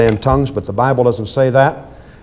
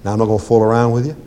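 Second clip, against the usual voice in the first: softer, fast quiet rebuke; quiet command; 6 semitones lower, 6 dB quieter, faster than usual. Shown as a demonstration. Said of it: "You just speak it quietly".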